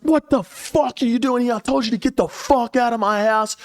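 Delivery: high-pitched mock yell; a hammed-up high squawk of outrage; exaggerated high voice, telling her to get out; retold yelling. Retold confronting her again.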